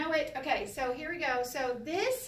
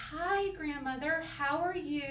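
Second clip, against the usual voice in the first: slower, higher, careful polite greeting; very proper; 4 semitones higher than usual. Acted. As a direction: greet grandmother with exaggerated propriety. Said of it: "you be very proper".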